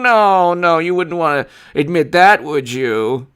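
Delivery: fading hammed-up outrage; mock indignation. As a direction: come down from a mock yell into a taunt. Taunt winding down.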